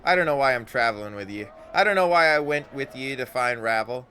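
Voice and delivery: bewildered at herself; confused Anna. Acted.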